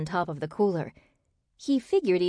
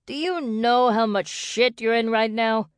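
higher-pitched, indignant yell; angry yell; 5 semitones higher, 4 dB louder than usual. A narrator's reading. Xander yelling into the phone at Kendrick, angry. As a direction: yell the threat down the line. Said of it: "Xander yelled into the phone".

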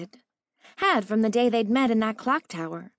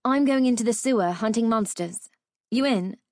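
snapped; 3 semitones higher, 3 dB louder than usual. Acted. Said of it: "She snapped".

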